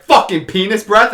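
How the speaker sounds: high, loud imitation of an angry driver; mock furious yell at another driver; road-rage curse. Retelling mom cursing a driver who cut her off, mock road rage. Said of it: "I think she had road rage one time".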